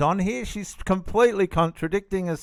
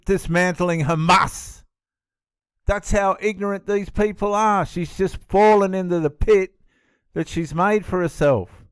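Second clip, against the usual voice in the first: exasperated rant; 4 semitones higher than usual. Real, not acted.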